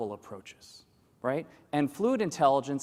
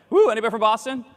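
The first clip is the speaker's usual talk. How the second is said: crowd hype; 7 semitones higher, 8 dB louder, faster than usual. Real, not acted. Rallying the crowd.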